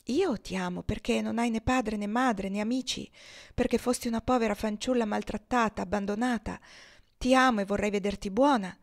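lightly voiced gentle sick girl, pleading; a hint of a tender young girl; Eva.

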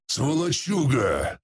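slow, drawn-out beastly growl; monstrous roar, held back. A narrator's reading. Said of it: "заревел владыка ада". (рыча по-звериному, протяжно)

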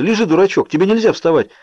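high, scolding cry; tearful scolding. A narrator's reading. Bella scolds Jacob to lie down, high and loud. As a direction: order him back to bed. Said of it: "прикрикнула я на него сквозь слёзы".

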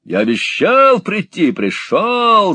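loud, high-pitched yell; shouting. A narrator's reading. Squeers shouts his answer to Peg, very loud. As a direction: yell it so she hears. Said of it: "заорал Сквирс".

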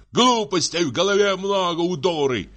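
high, indignant scolding; heated domestic tirade; shouting husband. Acted. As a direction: rant at a wife, pitch pushed up. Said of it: "закричал супруг".

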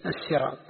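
السراط with a plain, light s sound; pronounced with sin. Shown as a demonstration. Teacher demonstrating the original reading, السراط with a plain s. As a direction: say السراط starting on s, not emphatic ṣ. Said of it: "السين".

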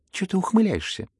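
high, sharp indignant demand; indignant lady. Acted. Irritated Lizaveta Prokofyevna demands an answer from the grinning prince. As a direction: challenge him sharply like an irritated noblewoman.

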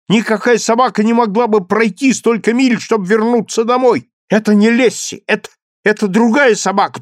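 в отчаянии, быстро и громко; слова срываются с языка. A narrator's reading. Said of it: "заговорил быстро-быстро". (скороговоркой, в отчаянии)

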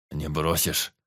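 slow, low, fading question; weak forester. A narrator's reading. Dying forester asks the teacher, slow and low. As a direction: ask as if barely able to see him.

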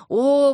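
loud frustrated oh breathed out; exasperated exhale. A narrator's reading. Igor, fed up with Masha: loud exasperated oh. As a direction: blow out a sharp, irritated oh. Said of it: "выдохнул он".

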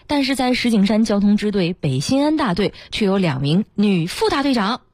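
measured, articulated report narration; radio feature reading. A narrator's reading. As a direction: present it as a prepared human-interest story. Reads out a prepared feature.

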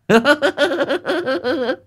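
very high leering laugh; lewd cackle. Acted. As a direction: cackle like a lecher. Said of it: "cười dâm tiện".

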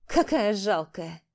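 медленно, с презрением; протянуть с брезгливым презрением; презрительно. Acted. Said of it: "презрительно рассматривая подругу". (Рита презрительно разглядывает подругу, медленное презрение)

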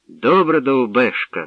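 loud, high, slow shout of delight; pleased shout. A narrator's reading. Youth praises his club, pleased loud shout. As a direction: call out happy with the club. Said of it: "гукнув вдоволено".

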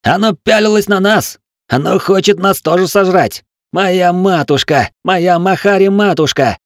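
high, loud, breathless panicked cry; choking with panic. A narrator's reading. Gunner reports the monster to the captain, breathless panic. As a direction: gasp the words out in terror.

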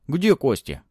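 sudden eager little dragon voice. Acted. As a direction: perk up, hungry for bones. Dragon perks up. (оживлённый дракончик)

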